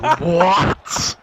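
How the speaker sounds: high, loud mock disbelief; shocked what. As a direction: yelp it in disbelief. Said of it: "I was like".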